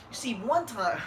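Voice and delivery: Keith Thurman. Acted. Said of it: "he has a list for Keith Thurman".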